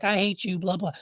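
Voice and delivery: high-pitched, pretend outburst; mock distraught. Distraught dad lashing out at firefighter, mock upset. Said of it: "I'm emotionally distraught".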